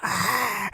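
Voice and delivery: short imitated bear growl; mock bear roar. Retelling the bear's scary moments, mock roar. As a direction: roar like a bear, half in jest. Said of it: "he's scary in some points where he's like".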